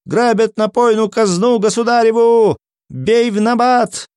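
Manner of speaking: high, sustained alarm cry; high-pitched wail for help; shouting the alarm. A narrator's reading. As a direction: cry robbery out to the whole settlement. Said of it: "кричал убежавший от побоев целовальник".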